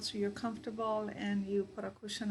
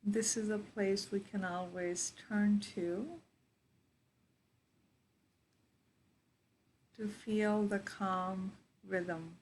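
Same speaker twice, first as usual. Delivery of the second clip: guided meditation. Real, not acted. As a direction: guide them into their breath, unhurried.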